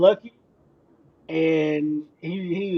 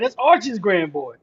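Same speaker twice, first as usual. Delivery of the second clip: put-on slow, creaky old man drawl. Shown as a demonstration. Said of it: "You gotta say it like an old man".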